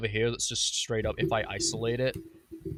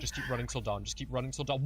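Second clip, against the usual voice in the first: hushed in-character panic; 6 dB quieter than usual. Retold or imitated. Video monologue, hushed.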